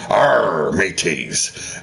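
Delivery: a light mock pirate greeting; hint of a pirate voice; pirate growl. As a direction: toss off a hammed-up pirate hello. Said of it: "a pirate".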